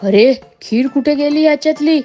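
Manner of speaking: a storyteller's shout for the monkey; mock shout. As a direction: call out in alarm at the empty pot. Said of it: "ओरडायला लागतो".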